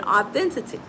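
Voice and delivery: "authenticity" cut short, a syllable dropped; fumbled pronunciation. Real, not acted. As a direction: stumble through "authenticity" as authentity. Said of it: "I messed that word up".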